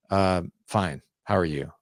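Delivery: mildly cool and puzzled, barely polite; indifferent. Retold or imitated. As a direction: answer like you don't care much. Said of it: "kind of puzzled and very indifferent".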